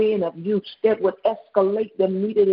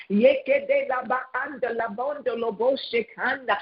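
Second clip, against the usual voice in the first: flowing tongues prayer; speaking in tongues. Real, not acted. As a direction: let the syllables run on fervently. Prayer in unknown syllables.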